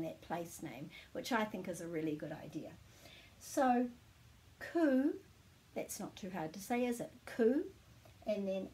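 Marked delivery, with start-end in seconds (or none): 4.6-5.1 "ku" alone, long u, higher; broken-up syllable. Shown as a demonstration. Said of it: "putting a break after every vowel". 7.3-7.6 "Ku" on its own, long u; broken-up syllable. Shown as a demonstration. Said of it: "putting a break after every vowel".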